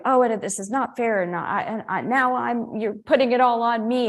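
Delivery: mock a self-pitying victim; lightly hammed-up hard-done-by wife; whiny victim. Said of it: "playing that victim".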